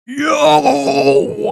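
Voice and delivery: high, sharp yo; excited yelp. Retold or imitated. Hunter retells spotting the rack, high yelp. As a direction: squeak out a startled yo. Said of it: "I was like".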